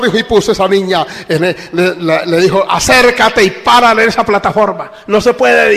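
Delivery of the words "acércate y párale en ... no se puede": higher, louder commanding call; shouted order. Retold or imitated. Pastor ordering the mother onto the platform, loud shout. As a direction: bark the order across the platform. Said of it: "le pegó un grito".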